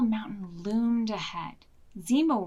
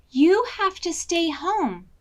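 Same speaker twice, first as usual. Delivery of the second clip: firm order; 7 semitones higher, 7 dB louder than usual. Acted. Betsy orders wolf to stay.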